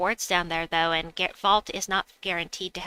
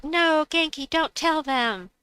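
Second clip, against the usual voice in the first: playful protest; 8 semitones higher, 4 dB louder, slower than usual. Real, not acted. Viewer reveals her exploit.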